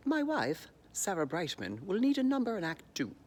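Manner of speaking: lightly voiced grand composer; a mild mock proclamation; Andrew Lloyd Webber. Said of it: "when Andrew Lloyd Webber said".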